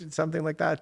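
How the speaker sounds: ordinary delivery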